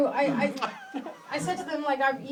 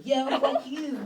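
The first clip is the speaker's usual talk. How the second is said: mock aggressive; 2 semitones higher, much slower than usual. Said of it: "influenced by the comedians before me".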